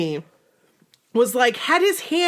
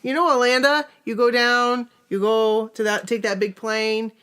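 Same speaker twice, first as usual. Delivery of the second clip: put-on very old faint voice. Old person voice continued.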